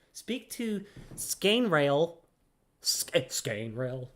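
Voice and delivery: slowly spelling out Scainrail syllable by syllable; slow, halting Scainrail; sounding out Scainrail. Real, not acted. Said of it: "that is not even a name".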